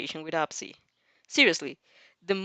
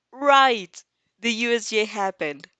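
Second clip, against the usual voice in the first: sudden recall; 3 semitones higher, 5 dB louder, slower than usual. Real, not acted. Suddenly remembering plot.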